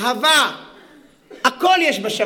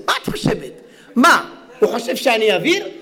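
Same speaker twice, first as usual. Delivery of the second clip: scornful laughing. Acted. Wife mocks husband to sister.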